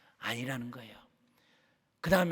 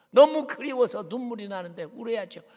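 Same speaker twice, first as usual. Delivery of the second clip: normal talking voice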